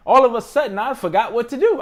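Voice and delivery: laughing while admitting you forgot. Real, not acted. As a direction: laugh at your past self. Laughing at own panic.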